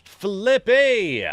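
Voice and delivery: excited shout-out. Real, not acted. Calling out a viewer's name.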